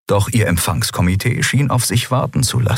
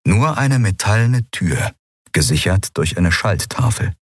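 ordinary delivery, nothing marked

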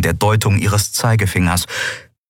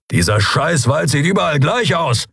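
irritated growl, pitched up; annoyed growling complaint; 8 semitones higher than usual. A narrator's reading. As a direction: growl and curse in frustration. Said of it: "knurrte er".

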